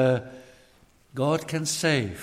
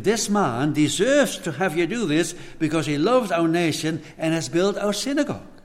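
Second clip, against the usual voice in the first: imitating the elders pleading, a touch louder; earnest pleading; 3 semitones higher, 3 dB louder than usual. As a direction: plead the centurion's case earnestly. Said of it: "they pleaded earnestly with him".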